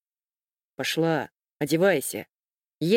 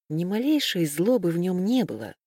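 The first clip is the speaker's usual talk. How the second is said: usual speaking voice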